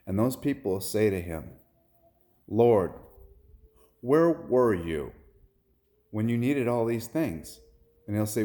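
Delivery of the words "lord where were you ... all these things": high, loud, drawn-out appeal; imploring question. Retold or imitated. Those on the left question the Lord, imploring. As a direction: preach it as a slow, raised plea.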